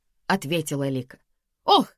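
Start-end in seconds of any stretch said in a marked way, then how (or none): 1.6-1.9 loud, slow exclamation, climbing high; exclaiming. A narrator's reading. Karina accuses husband of wanting her death, exclaiming. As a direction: cry out in dramatic exasperation. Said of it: "воскликнула Карина".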